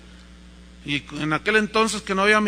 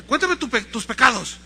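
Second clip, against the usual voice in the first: raised, high confessor's demand; acted brusque priest; impatient priest; 5 semitones higher, 4 dB louder than usual. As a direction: prod a child to confess.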